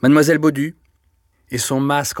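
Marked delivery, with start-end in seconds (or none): 0.0-0.8 solemn summons. A narrator's reading. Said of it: "l'air solennel".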